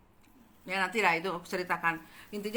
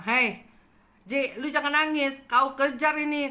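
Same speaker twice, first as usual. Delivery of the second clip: urging friend; 6 semitones higher, 6 dB louder than usual. Retold or imitated. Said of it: "Terus temanku bilang".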